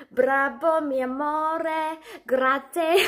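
playful mock-Italian flourish; joking Italian. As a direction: pretend to be Italian, breaking into laughter. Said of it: "I'm Italian now".

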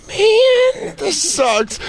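high-pitched whiny complaint; high whine. Retold or imitated. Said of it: "I was like".

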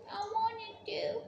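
tearful whining plea, slowing at the end; whiny crying. Real, not acted. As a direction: beg through real tears. Child whining to get toy.

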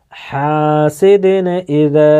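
হাসিদিন drawn out syllable by syllable; slow recitation. Shown as a demonstration. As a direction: read হাসিদিন slowly for students. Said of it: "জাহির করে তাড়াতাড়ি পড়তে হবে".

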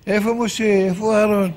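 mock yell of a man searching; calling out. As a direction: call out urgently for someone. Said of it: "והוא הולך וצועק".

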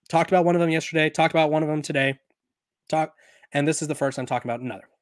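talking through hiccups; words broken by hiccups. Real, not acted. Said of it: "Sorry, I got the hiccups".

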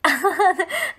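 loud, high laugh at the comment; a real loud laugh; bursting laugh. Real, not acted. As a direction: laugh out loud, caught off guard. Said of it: "問い詰め方怖かった".

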